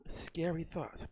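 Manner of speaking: breathy whisper to the crowd; whispered aside. Real, not acted. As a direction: drop to a secret whisper. Aside after edgy joke.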